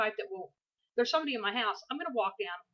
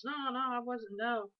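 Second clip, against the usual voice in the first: acted denial; 5 semitones higher, slower than usual. Brother's sleepy denial, acted.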